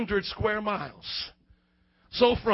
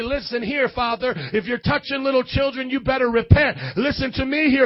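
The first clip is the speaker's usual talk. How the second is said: imagined preaching at priests; 4 dB louder than usual. Pretend. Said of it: "and say".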